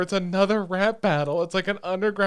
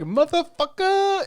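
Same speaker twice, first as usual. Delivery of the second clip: mock swear; 14 semitones higher, 6 dB louder, slower than usual. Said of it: "Chica's over there like".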